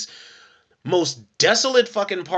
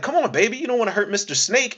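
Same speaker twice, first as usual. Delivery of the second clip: higher, mock pleading; pleading whine; 7 semitones higher, faster than usual. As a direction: beg her to go easy, hammed-up. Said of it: "He's like".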